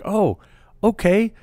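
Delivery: high, slow sarcastic mom voice; mocking drunk mom. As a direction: imitate the mom sneering at the stepdad. Drunk mom mocking stepdad, retold.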